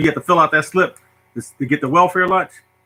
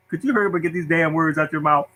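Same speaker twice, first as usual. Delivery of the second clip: impatient lunch lady. Retold or imitated. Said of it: "looking at me like this".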